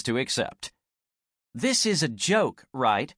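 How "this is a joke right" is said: firm statement. Acted. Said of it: "a firm statement than a question".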